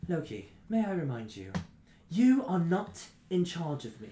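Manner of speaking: lightly voiced haughty reminder; Lilith's rebuke. Lilith telling Loki he's not in charge, lightly haughty. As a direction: put him in his place, measured. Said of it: "she turns to him and says".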